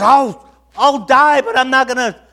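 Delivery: loud, high, emphatic declaration; bold vow. Acted. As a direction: swear it at full voice, stretched out. Acts Peter's bold vow.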